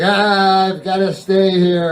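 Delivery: high moaning ghost whine; hammed-up whiny ghost. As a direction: moan it like a sulky ghost.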